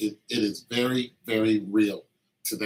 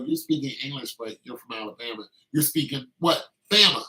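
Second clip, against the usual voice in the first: mock puzzled question. Teasing someone from Alabama about their speech, in a mock puzzled voice. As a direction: play dumb, then blurt the answer.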